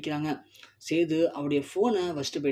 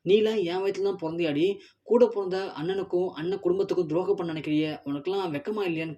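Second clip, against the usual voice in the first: raised, sharp rebuke; furious scolding; 3 semitones higher than usual. Acted. Grandmother scolds her daughter Savithri, furious. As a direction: tear into a daughter who betrayed family. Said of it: "பயங்கரமா கடுப்பாயி".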